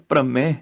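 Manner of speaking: ਭ੍ਰਮੈ with a nasal final vowel; nasal ending. Shown as a demonstration. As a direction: end ਭ੍ਰਮੈ through the nose. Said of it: "ਬਿੰਦੀ ਨਾਲ ਉਚਾਰਨ ਆ ਗਿਆ".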